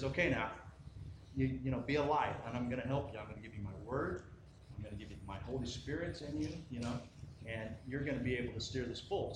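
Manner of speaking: softly spoken, gentle reassurance; quiet, caring encouragement in God's voice; reassuring God. Acted. God reassuring his children.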